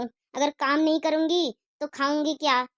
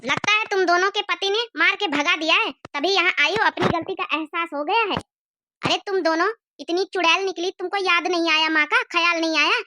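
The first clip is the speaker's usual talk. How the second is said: put-on angry old mother, a touch higher, scolding her daughters; 4 semitones higher than usual. Mother scolds her runaway daughters, hurt and angry. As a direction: reproach them for forgetting her.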